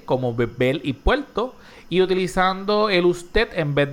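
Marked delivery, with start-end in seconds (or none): 0.3-1.5 beber and puerto said with l for r; r turned to l. Shown as a demonstration. Host lists examples for listeners, r pronounced as l. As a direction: swap the r for an l. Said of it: "la sustitución de la R por la L".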